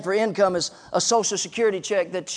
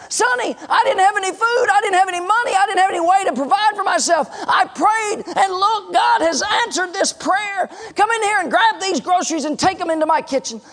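put-on high, emphatic old widow proclaiming answered prayer; exultant testifying; 9 semitones higher than usual. Widow tells atheist neighbor God answered her prayer, exultant. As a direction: testify with fervor, pitched way up.

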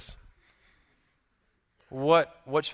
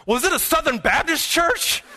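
mock astonishment; 12 semitones higher than usual. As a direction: imitate her squealed question for laughs. Voicing the woman's next wild guess.

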